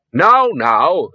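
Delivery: jolly someone out of panic; soothing admonishment. A narrator's reading. Soothing the distraught bursar.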